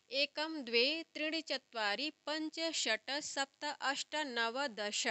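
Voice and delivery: Sanskrit numerals recited evenly, one by one; pronunciation demo. Shown as a demonstration. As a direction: sound out each numeral for the class, falling on the last. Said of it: "ये हो गया इनका उच्चारण".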